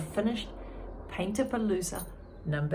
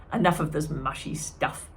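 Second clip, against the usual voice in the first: gruff with sniffle; 2 semitones lower than usual. Acted. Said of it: "with a sniffle".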